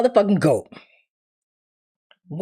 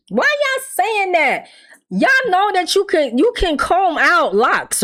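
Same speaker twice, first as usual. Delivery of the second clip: exasperated; 6 semitones higher than usual. Real, not acted. Exasperated defending Jay.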